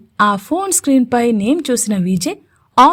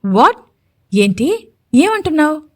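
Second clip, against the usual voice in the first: surprised; 4 semitones higher than usual. Acted. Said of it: "అని ఆశ్చర్యంగా అడిగింది".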